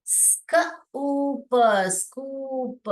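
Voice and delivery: स्क, ऊप, then स्कूप slowly; blending स्कूप. Shown as a demonstration. Teacher to kids, slowly blending स्कूप. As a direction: sound out स्कूप in parts. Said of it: "क्या पढ़ना है इसको?".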